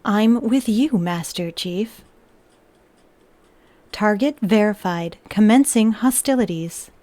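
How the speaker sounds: flat machine monotone; lightly voiced robot. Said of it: "I will say in the robot voice".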